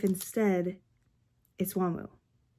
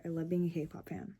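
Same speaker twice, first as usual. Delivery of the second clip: unvoiced, tired; whisper; 5 semitones lower, 8 dB quieter than usual. Real, not acted. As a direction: whisper it to yourself. Whispered late-night confession.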